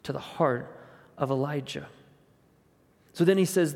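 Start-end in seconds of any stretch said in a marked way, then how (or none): 0.0-1.9 hushed near-whisper. Shown as a demonstration. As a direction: drop to a hush on the story of God's whisper. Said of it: "begins to whisper".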